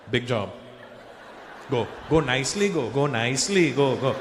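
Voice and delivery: put-on low Indian-accented fatherly instruction; Indian dad. Dad sending child to bathroom, low Indian accent.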